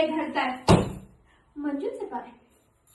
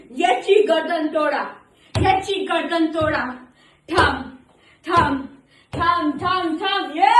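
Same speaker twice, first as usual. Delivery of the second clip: acted king's loud command; राजाचा हुकूम; 5 dB louder than usual. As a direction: order the execution like a king. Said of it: "मग राजा म्हणेल". (राजाच्या थाटात मोठ्याने हुकूम)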